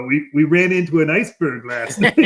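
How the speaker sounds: laughing through a Boston accent impression. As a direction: say it like a Boston guy, chuckling. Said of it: "in his Boston accent".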